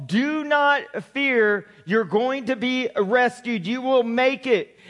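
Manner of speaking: very slow, soothing promise; calm a frightened man; reassuring. Acted. God telling Paul not to fear, slow and reassuring.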